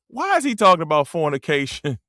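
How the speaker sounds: words breaking up with laughter; laughing while talking. Real, not acted. Joking to fans about the pastor's sermon, laughing hard. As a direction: crack up through the punchline. Cracking up at own church joke.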